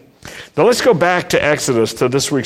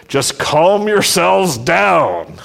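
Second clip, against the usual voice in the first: slow calming; 4 semitones higher, slower than usual. Retold or imitated. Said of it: "I love David Stern's translation".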